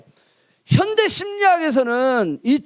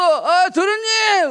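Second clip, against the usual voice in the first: higher, louder, slow drawn-out call; servant calling out; 10 semitones higher, 4 dB louder, much slower than usual. Retold or imitated. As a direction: call the young master, stretched and high. Servant calling young master.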